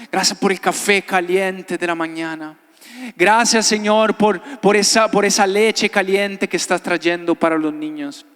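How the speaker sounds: praying aloud as in the story; retold prayer of thanks over imagined breakfast; fervent prayer, retold. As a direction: lead the children in earnest thanks. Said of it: "a orar fervientemente".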